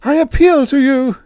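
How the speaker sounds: high-pitched, loud pleading; an urgent stage plea, no true whisper; hoarse alien plea. A narrator's reading. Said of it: "Yith whispered hoarsely".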